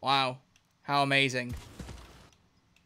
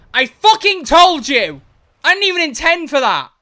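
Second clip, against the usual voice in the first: much higher, louder, slow yell; frustrated shout; 12 semitones higher, 13 dB louder than usual. Real, not acted. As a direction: bellow it at the crash. Crashes the ship after predicting it.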